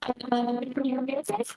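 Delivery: half robot voice, glitchy connection; robotic, distorted mic sound; cyborg voice. Real, not acted. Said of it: "Mimi, you sound like a cyborg".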